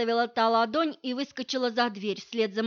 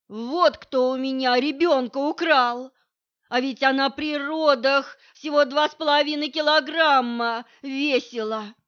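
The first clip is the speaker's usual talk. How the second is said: loud, slurred, wailing accusation; drunk accusing shout; 3 semitones higher, 7 dB louder than usual. Acted. Drunk mother shouts at Vitalik, loud accusing wail. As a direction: howl it like a drunk mother blaming him.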